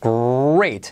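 "great" with a drawn-out r; GREAT pronunciado despacio. Shown as a demonstration. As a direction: stretch the r in "great" for learners. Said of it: "Fíjate cómo te digo". ("great" alargando la erre)

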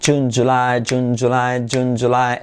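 "June, July" with firm English j; reference-word drill. Shown as a demonstration. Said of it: "palabras de referencia a junio".

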